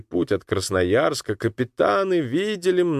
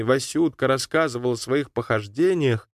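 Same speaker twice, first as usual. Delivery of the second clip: usual speaking voice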